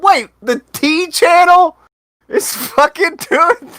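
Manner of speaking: high, slow mock voice. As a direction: quote it in a high voice. Voicing an imagined reaction.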